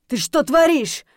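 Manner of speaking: high, loud scolding question; stern reproach. A narrator's reading. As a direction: demand an explanation, alarmed. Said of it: "нахмурился Винс".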